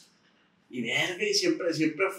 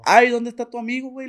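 incrédulo; 8 semitones higher, 6 dB louder than usual. Retold or imitated. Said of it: "le dije yo".

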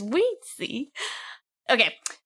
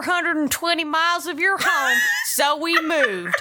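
put-on Southern accent. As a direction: read the letter in a Southern accent, laughing through it. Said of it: "I gotta do some of my southern accent".

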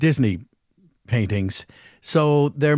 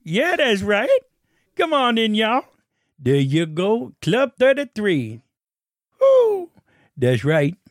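higher, bouncy come-on-in; hammed-up welcome; 7 semitones higher, slower than usual. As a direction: whoop them into the club. Voicing the glowing menu figure.

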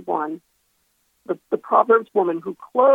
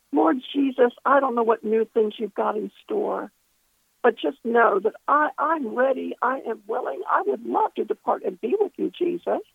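earnest plea to Jesus, with pauses; recounting a heartfelt prayer, lifting on the pleas; retold prayer. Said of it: "I was just praying".

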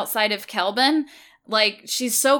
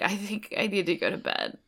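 put-on sad drunk. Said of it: "like, sad drunk".

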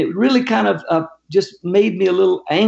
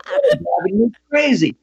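higher-pitched, put-upon complaint; retold exasperation; 4 semitones higher than usual. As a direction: imitate a man at his wits' end. Retold exasperated man confronting him.

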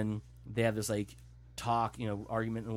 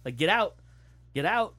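loud, high-pitched heckle at the screen; mock warning; 7 semitones higher, 7 dB louder than usual. Viewer heckling the man walking toward the creeping door, loud warning. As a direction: call out urgent warnings to a doomed character. Retells shouting warnings at film character.

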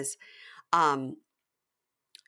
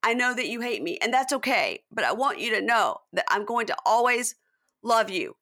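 mock tearful, pitched up a little; retold tearful plea; 3 semitones higher than usual. Retelling Sandoval's bawling plea to Ariana, mildly tearful. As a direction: imitate a pleading, emotional declaration. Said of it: "truly bawling, crying".

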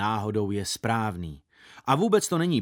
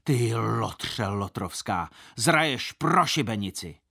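angry shout; 2 semitones lower, slower than usual. Acted. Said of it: "křičel silným hlasem".

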